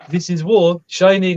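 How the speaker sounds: light imitation of a Greek accent; clipped broken English in a playful Greek accent; mock Greek accent. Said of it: "Using a Greek accent now as well".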